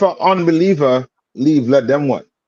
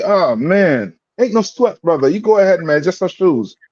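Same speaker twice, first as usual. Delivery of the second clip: higher-pitched, casual no-worries reply; easygoing brush-off; 5 semitones higher than usual. Acted. Brother shrugging off a stepped-on shoe, easygoing. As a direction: wave it off, voice lifted.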